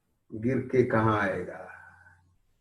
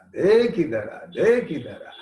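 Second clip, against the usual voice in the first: called out louder; 2 semitones higher than usual. Shown as a demonstration.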